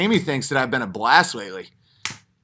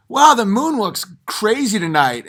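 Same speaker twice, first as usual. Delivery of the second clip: innocent guest; 6 semitones higher than usual. Retold or imitated. Guest breaks the rule.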